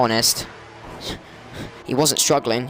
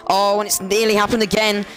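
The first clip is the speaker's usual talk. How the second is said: surprised exclaim; 6 semitones higher than usual. Real, not acted. Another near spin.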